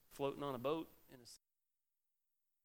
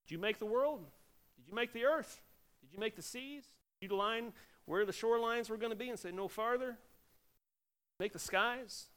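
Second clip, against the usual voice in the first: God's booming challenge, pitched high and loud; a lightly voiced God pressing Job with questions; mild mock of God demanding answers; God questioning Job; 8 semitones higher, 4 dB louder than usual. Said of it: "God's asking Job".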